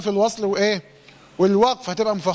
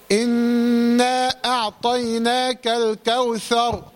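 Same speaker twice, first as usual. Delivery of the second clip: slow Quran recitation; much slower than usual. Shown as a demonstration. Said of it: "recitation demo".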